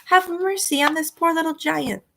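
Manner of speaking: high, slowed desperate pleading; begging giant. A narrator's reading. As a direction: beg for mercy from Jack.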